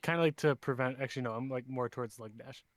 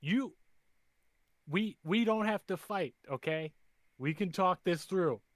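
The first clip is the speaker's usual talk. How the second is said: in-character negotiator; 5 semitones higher than usual. Acted. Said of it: "I'm like".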